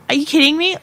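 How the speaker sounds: gasp, then high, loud disbelief; hammed-up shocked question; shocked mother. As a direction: imitate a mum who fully believes it. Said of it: "she was hundred percent believed me".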